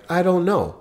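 "I don't know" lifted high, trailing off; high helpless I don't know. Retold or imitated. Wife answering her husband's question, high and helpless. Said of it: "What she didn't say was".

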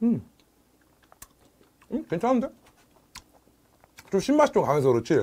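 talking while chewing food; muffled closed-lip speech; mouth full, chewing. Real, not acted. Seen 1: Lips pressed, chewing after biting fish; talks between chews.

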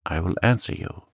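understated earnest cry; unhappy plea. Acted. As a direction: beg to be questioned. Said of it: "cried the unhappy young man".

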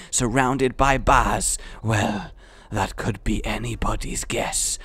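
measured, hushed wildlife narration; nature documentary narrator. Pretend. Mock nature documentary narration of game.

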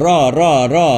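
"รอ" with lips not rounded; drilled "รอ", lips relaxed; unrounded lips. Shown as a demonstration. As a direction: say each "รอ" separately without pursing the lips. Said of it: "ไม่หอปากนะครับ".

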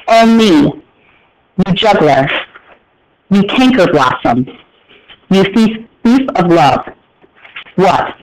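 flat reading, pausing only at commas; plain first read-aloud. Shown as a demonstration. Teacher reading Shakespeare aloud to the class, plain and undramatic. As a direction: read it cold, as if seeing it for the first time. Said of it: "I'm not gonna do anything dramatic with my voice".

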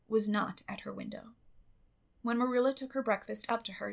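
ordinary delivery, nothing marked

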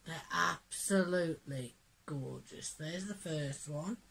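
hoarse, croaky from a cold. Real, not acted. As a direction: talk through a croaky throat. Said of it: "sorry for the croaky voice".

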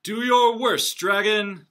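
loud, high challenge; bold declaration. Acted. Knight's father challenging the dragon, loud and bold. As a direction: dare the dragon to do his worst. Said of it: "declared the shiny man".

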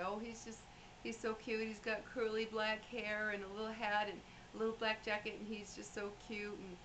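gently imitating the dying woman's delight; lightly voiced old woman. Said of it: "she would say".

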